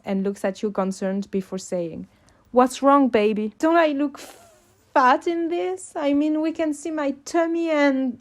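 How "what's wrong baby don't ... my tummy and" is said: anxious. A narrator's reading. Anxious self-conscious girlfriend.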